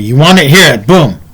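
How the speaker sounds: mildly angry, punchy retort; retold testy hand-back, short phrases; a touch of anger, punched out; kinda angry.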